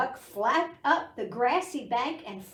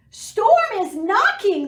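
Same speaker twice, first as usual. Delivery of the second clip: much higher, loud scared sheep cry; frightened cry; 11 semitones higher, 12 dB louder than usual. Acted. Sheep hearing rain on the roof, loud scared cry. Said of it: "the sheep cried".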